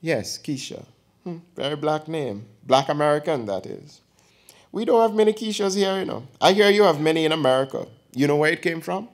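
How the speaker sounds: put-on chatty elderly aunt teasing her nephew; old aunt voice. Aunt teasing her nephew before his girlfriend, lightly voiced old woman.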